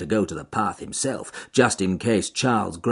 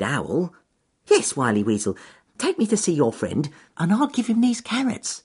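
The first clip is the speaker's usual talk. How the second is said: cheerful rabbit voice; 4 semitones higher than usual. Acted. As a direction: call up brightly to the trees. Rabbit agrees trustingly.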